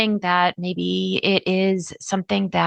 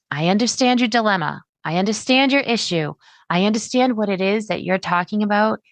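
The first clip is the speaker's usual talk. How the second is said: warm expert voice. Shown as a demonstration. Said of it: "something in your voice that says you're the expert".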